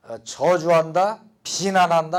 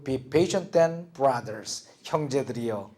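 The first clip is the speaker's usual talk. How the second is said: slow and softer, trailing down on brothers; gentle comforting tone; 4 semitones lower, 5 dB quieter, slower than usual. Shown as a demonstration. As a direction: soothe the brothers after the scolding. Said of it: "여기서 말투가 싹 바뀌어요". (부드럽게 달래듯이)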